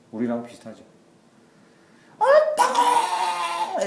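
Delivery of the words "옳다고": high, loud, very drawn-out shout with a laugh in it; half-laughing mock outburst of a stubborn prophet; hammed-up indignant yell; defiant retort. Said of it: "이렇게 얘기하는 거예요".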